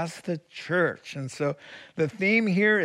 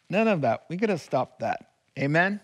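louder emphatic preaching call; loud exhortation; 3 semitones higher, 3 dB louder than usual. Real, not acted. Preacher rousing the congregation against fear, loud. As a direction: push it out to the congregation. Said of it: "that was a loud one".

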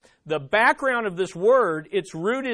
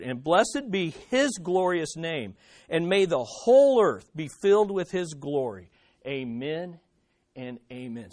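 scripture reading; 3 semitones lower than usual. Acted. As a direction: read it out reverently, quieting on the closing amens. Reads Psalm 72 aloud.

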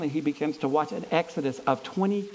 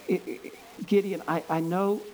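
voice of God; 2 semitones lower than usual. Acted. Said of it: "God's response is".

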